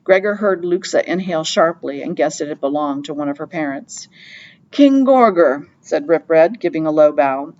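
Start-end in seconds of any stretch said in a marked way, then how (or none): 4.7-5.7 grand greeting. Acted. Rip Red greets the rat king.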